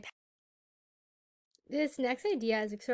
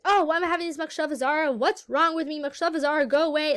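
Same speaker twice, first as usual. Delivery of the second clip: mock exasperation, quick and a bit raised; annoyed self-talk; 4 semitones higher, 3 dB louder than usual. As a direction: act out getting annoyed at your own thought. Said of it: "getting annoyed at it and getting angry".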